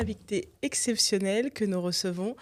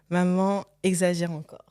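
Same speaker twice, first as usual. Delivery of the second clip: playful; 7 dB louder than usual. Real, not acted. Host announcing nickname playfully.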